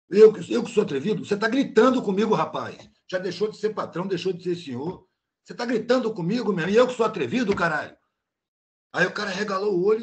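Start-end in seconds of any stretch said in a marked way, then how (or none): 0.1-8.0 retold angry retort. Worker throws the boss's yelling back in his face, heated retort. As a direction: fire the boss's insult right back at him.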